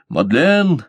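high, loud call to stop her; shouting her name. A narrator's reading. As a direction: cry out to hold her back. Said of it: "закричал её брат".

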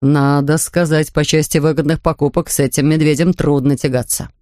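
a father struck by the price; impressed Mr Brown. Acted.

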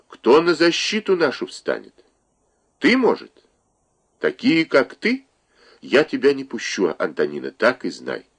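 stern, solemn. Acted. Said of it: "Мать сказала строго, почти торжественно".

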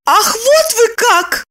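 high, slow indignant exclamation; hammed-up indignation; mock shout of outrage; indignant outcry. A narrator's reading. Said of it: "закричала она".

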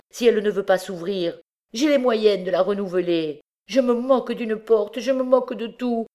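high, pleading, frantic cries, slowing on pauvre Miette; frantic old man. Acted. Coombe begging the rescuers to smash the door, frantic and high. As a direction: beg them to break the door, half out of his mind.

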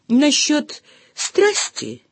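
mumbled with face buried in shoulder; muffled mumble. A narrator's reading. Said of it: "пробормотала я, уткнувшись лицом в его мокрое плечо".

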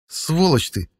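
a mild meow in the voice. Acted. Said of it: "мяукнул кот".

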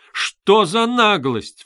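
high, loud, slow outburst; indignant cry. A narrator's reading. Dunya jumping up at Luzhin, crying out. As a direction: fling out the outrage. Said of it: "вскричала Дуня".

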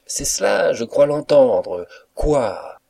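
lightly acted amused cook; laughing cook. A narrator's reading. Cook carrying on with the joke, lightly acted loud amusement. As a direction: play along with the supposed joke, loudly. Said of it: "poursuivant son idée".

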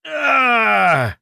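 agonized yell of pain; full-throated scream. A narrator's reading. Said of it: "во всё горло заорал я".

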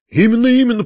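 high, keen echo of agreement; eager agreement. A narrator's reading. Uncle seizes on nephew's suggestion, eagerly agreeing. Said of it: "подхватил дядя".

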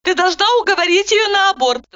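high, brisk interrupting voice; Roza cutting in. A narrator's reading. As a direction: cut her off, businesslike. Roza insists.

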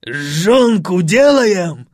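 slow, loud excited call; manic host. A narrator's reading. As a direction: fire up the party. Fred shouts excitedly.

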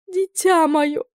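put-on high, tearful old aunt's wail; sobbing aunt. A narrator's reading. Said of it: "рыдала тётя". (рыдающая тётушка, высоким голосом)

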